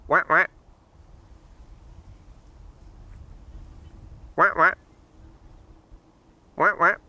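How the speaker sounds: short nasal-free quacking "wah, wah" like a duck; mock duck quack. Streamer greeting the ducks with a mock quack. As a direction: quack back at the ducks playfully. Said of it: "Yeah, that's me. I'm just saying hi".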